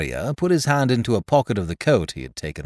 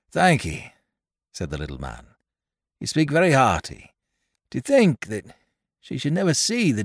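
put-on higher, fussy little old man voice; little old toymaker Caleb; 6 semitones higher than usual. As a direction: fret and ramble like a humble old toymaker. Caleb thanks carrier, sighs for daughter.

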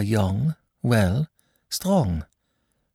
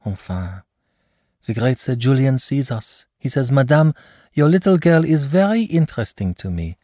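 gushing praise; 7 semitones higher than usual. Acted. Mother gushing about the doctor.

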